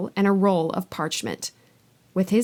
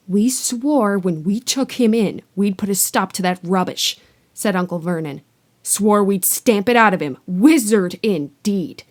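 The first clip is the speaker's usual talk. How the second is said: louder, contemptuous uncle; sneering uncle; 4 dB louder than usual. Acted. Uncle sneering at Hagrid over the wizard business. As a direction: spit out the scorn like an angry uncle.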